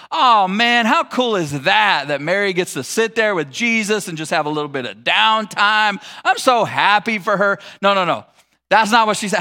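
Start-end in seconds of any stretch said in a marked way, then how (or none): 0.1-7.6 gushing, mildly hammed-up mock delight. Imagining Martha cheering for her sister, mock delight. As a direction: pretend to be thrilled for her, drawing words out. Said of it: "she's not thinking like".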